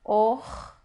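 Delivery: "Or" as one isolated syllable with an O; syllable read with O. Shown as a demonstration. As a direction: sound out "Or" alone, vowel O. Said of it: "a gente lê como o". (sílaba "Or" isolada, lida com O)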